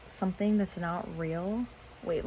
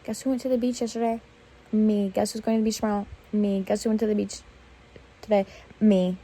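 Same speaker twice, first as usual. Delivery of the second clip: teasing brag, louder on each Me; bragging; 4 dB louder than usual. Shown as a demonstration. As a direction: show off, punch every Me. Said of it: "That is me trying to brag".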